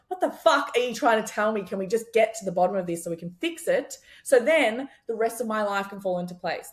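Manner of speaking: frustrated inner critic. Retold or imitated. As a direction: demand answers of your own skin. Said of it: "inner critic stuff coming out".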